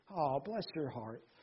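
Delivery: kind-sounding, sweet, tender, caring delivery. Showing how a phrase sounds caring while meaning something else: caring-sounding tone. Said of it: "the tone sounds really caring".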